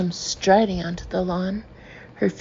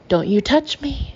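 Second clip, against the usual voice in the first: higher, shrill indignant cry; 6 semitones higher, 4 dB louder than usual. A narrator's reading. Trish to Hillary, shrill and higher. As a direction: shriek it in offended outrage. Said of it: "shrills Trish".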